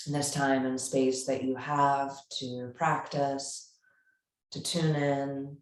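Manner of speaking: measured yoga-teacher guidance with long pauses; unhurried, evenly spoken meditation cueing; guided meditation. Real, not acted. Yoga teacher settling a class into seated breathing, guided meditation.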